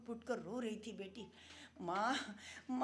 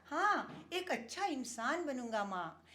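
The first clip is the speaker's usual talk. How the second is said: put-on innocent child; 4 semitones higher than usual. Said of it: "बड़ी मासूमियत से बच्चा बोला".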